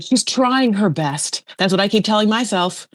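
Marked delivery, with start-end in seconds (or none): 0.0-1.4 drawn-out, slow quote in a near-usual pitch; lightly voiced excuse, stretched out slowly; imitating Daniel. Daniel excusing his partner to others, lightly imitated. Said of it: "Daniel's like".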